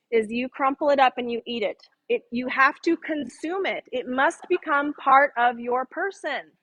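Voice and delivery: deadpan, assured instruction; straight-faced authority. Retold or imitated. College prankster telling friends to eat fortunes, with straight-faced authority. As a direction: pronounce nonsense as a sure rule. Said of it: "I said this with such authority".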